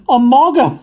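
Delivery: high, loud, incredulous "mogger"; a girl repeating the funny word in delight; giggling question. A narrator's reading. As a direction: ask it, nearly in fits of laughter. Anna laughing question.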